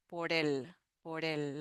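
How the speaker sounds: por el blended as one word, porel; teacher showing the blend por el; linked words. Shown as a demonstration. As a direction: run por el together without a break. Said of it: "we make like a br-, blend".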